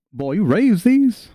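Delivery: high, drawn-out marvelling question; amazed question. Acted. Commander marvels at the farmer's chicken, high slow amazement. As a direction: stretch it out in high-pitched wonder.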